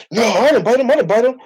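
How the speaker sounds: high whiny mock denial; mocking imitation. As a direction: mimic the liar's squeaky excuse.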